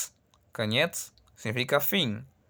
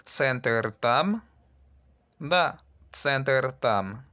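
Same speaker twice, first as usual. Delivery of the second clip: "center tam" said slowly with a rise; slow demo; much slower than usual. Shown as a demonstration. Teacher reads the exercise slowly to students. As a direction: drill it slowly for learners. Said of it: "En el seis".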